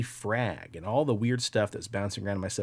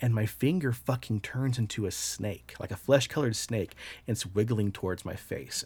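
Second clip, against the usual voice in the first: usual speaking voice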